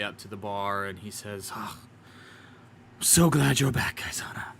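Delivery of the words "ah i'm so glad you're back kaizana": put-on tavern keeper greeting an old friend; gruff barkeep voice. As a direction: glad innkeeper, voice dropping at the name. Durnan greets returning friend.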